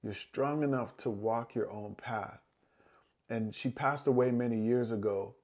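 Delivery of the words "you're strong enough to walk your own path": softer, slower second saying of the words; quiet loving echo; tender, slower repeat. Retold or imitated. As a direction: let it land gently the second time. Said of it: "my grandmother used to say to me".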